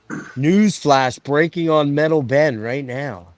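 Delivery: slow, drawn-out newsflash; mock news announcer. Host teases an interview to friends, mock newsflash. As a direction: lightly announce it like breaking news.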